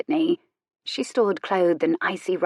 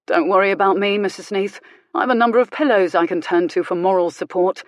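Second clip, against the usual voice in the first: cutting sarcasm; 4 dB louder than usual. Acted. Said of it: "It was his tone".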